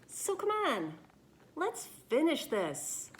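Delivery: stubborn, cheerful, refusing to quit; spirited storybook hero. Acted. Louis insists to the reader that his story goes on. Book character talks to reader.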